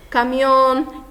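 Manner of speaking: "caminhão" said as Spanish camión, stress on the last syllable, ON; final-syllable stress. Shown as a demonstration. Teacher giving an example of an aguda, "caminhão" as camión with final stress. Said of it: "a sílaba tônica recai no on".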